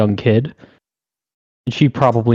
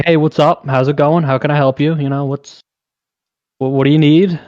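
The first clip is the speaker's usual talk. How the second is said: bright upbeat help-desk voice, pitched higher; chirpy customer service voice; 3 semitones higher than usual. Retold or imitated. Store clerk answering a caller, in a mock cheery service voice. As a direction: put on the cheery phone-support act. Retail worker greets a phone caller.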